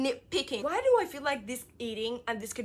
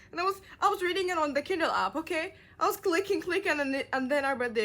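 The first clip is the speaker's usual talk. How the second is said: higher, louder rush; barely holding back a scream; telling viewers the ending with pent-up excitement; excited; 7 semitones higher, 4 dB louder than usual. Real, not acted. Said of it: "holding my scream".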